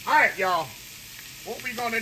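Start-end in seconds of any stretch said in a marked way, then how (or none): 0.1-0.7 excited greeting. Real, not acted. Cheery return greeting to viewers.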